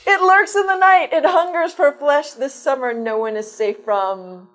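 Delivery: slow, dramatic trailer narration; horror trailer voice. Pretend. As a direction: build it like an ominous trailer. Mock horror trailer read.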